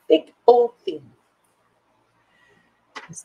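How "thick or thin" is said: called out loud in one quick breath; quick called question. Shown as a demonstration. Asking the ladies for a quick answer, loud and brisk. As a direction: fire the question straight at them. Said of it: "I want a quick answer".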